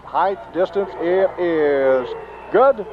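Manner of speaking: rising kick call; excited call. Real, not acted. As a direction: build the suspense, then call it. Calling a made extra point.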